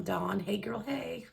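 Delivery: mildly imitating a friend's hey girl; imitating Autumn's greeting. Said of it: "I can't do it like her".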